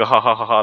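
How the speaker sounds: mock belly laugh; imitated guffaw. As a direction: act out guffawing at the screen. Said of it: "って見てましたよ".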